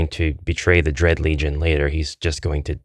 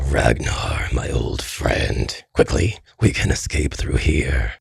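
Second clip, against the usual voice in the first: low, slow raspy whisper; hushed, drawn-out villain's rasp; Skalmar; 4 semitones lower, slower than usual. Acted. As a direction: whisper it hoarsely to an old friend. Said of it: "Skalmar now addresses Ragnar".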